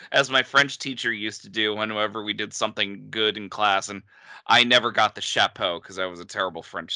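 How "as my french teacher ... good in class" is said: usual speaking voice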